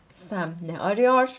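ordinary talk

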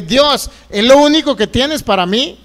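mild re-enacted yell of protest; indignant retold complaint; retold cry to God. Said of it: "Una vez le grité".

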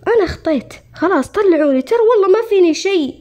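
urgent plea to be let out; pleading. Retold or imitated. Begging doctor to release him. (توسل ملح للطبيب بنبرة عالية)

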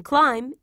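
"climb" with the B left silent. Shown as a demonstration. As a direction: say "climb" without any b sound at the end. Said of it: "is not pronounced".

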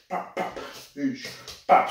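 soft unvoiced pops and a hiss; strike sounds. Shown as a demonstration. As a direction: puff out the strike noises. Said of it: "sideways view".

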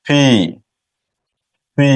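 ফি from both lips, a light puff between প and ফ. Shown as a demonstration. Teacher modelling the sound of P between প and ফ. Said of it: "দুই ঠোঁট হালকা করে চাপ দিলে বাতাস বের হবে".

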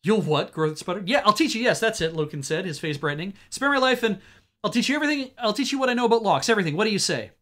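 high, loud frantic offer; desperate bargaining. Acted. Caught thief begging to teach lockpicking, frantic pleading. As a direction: bargain for your life, pleading.

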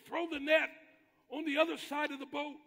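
high, loud shouted instruction; shouting out. Retold or imitated. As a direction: call out to a far-off boat. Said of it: "He shouts out again".

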